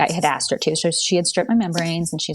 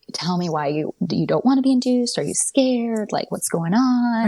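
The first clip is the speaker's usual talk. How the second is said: lightly imitated sweet doctor, gently higher; sweet concern; 4 semitones higher than usual. Doctor asking a crying patient what is wrong, sweetly concerned. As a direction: coax the worry out in a higher voice. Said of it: "she was so sweet".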